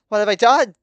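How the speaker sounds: high, loud cry of horror; horrified. A narrator's reading. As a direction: wail it out, appalled. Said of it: "dropping the knife in horror".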